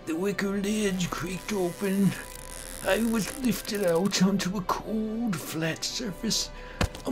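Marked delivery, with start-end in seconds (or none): none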